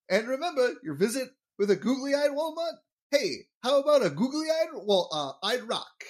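bad comic impression, high-pitched and swooping; hammed-up high-pitched salesman impression; Rodney Dangerfield. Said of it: "that is my horrible impression".

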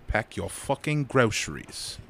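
put-on slow British-accented catchphrase; measured mock British scolding. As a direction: quote the shopper, drawing it out in British. Host echoes the British catchphrase.

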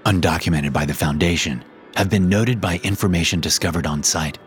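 measured, formal report reading; steady archive report voice; document read. Acted. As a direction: read it like a clinical file entry. Reads the SCP document.

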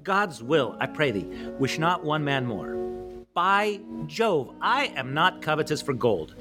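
King Henry's rousing battle speech, declaimed; amateur Shakespeare recital. Acted. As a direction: declaim it with weighty pauses and swings in pitch. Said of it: "presented to you by me in my".

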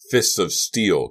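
slow, loud battle cry; heroic yell. A narrator's reading. Kerry lands a punch, triumphant slow yell. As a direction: draw it out like a superhero's war cry. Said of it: "yelled in a voice he'd never heard before".

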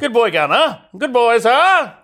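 silly dog praise. Acted.

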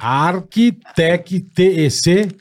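slow letter by letter; spelling it out. Shown as a demonstration. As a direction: spell it out carefully. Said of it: "deixa eu soletrar".

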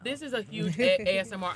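talking through a mouthful; words around a bite of food; chewing while talking. Real, not acted. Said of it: "sorry for all the chewing".

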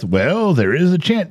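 noncommittal doctor drawing it out; vague doctor. Retold or imitated. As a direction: dodge like a cagey doctor. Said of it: "They're so vague".

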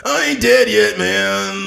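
high, loud wrestler growl; Macho Man voice. Pretend. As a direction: burst out yelling like Macho Man. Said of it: "busted out his casket like".

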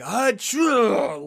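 high, loud mock achoo; imitating a sneeze that rocks him; violent sneeze. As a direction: sneeze it out hard. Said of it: "it was so bad".

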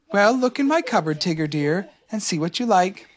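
gentle motherly offer; kindly Kanga. Acted. Kanga offering Tigger breakfast, gently kind. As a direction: soothe a hungry child. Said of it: "Kanga said very kindly".

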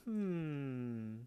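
counter lady voice. Retold or imitated. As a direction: chirp out the welcome like a fussy attendant. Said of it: "The lady's all like".

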